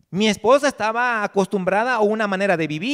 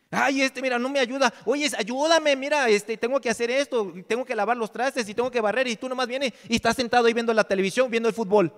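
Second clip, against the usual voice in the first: raised, whiny mock nagging, rattled off quickly; nagging wife; 4 semitones higher than usual. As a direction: whine at the husband glued to the TV. Esposa reclamando al esposo. (imitación ligera de esposa regañona)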